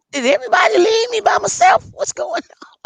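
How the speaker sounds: shouting in alarm. Real, not acted. Finds everyone left the stream.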